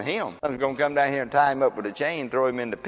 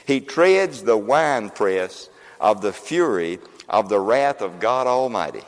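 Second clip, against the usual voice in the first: slower and lower, weighing each word; slow solemn reading; 3 semitones lower, slower than usual. Shown as a demonstration. Preacher rereading the verse slowly for emphasis. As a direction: draw it out like a solemn proclamation. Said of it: "I'm gonna show you that".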